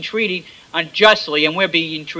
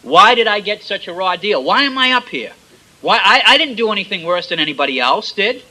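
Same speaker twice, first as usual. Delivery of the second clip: complaining whine; 4 dB louder than usual. Acted. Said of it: "The attitude of that other thief".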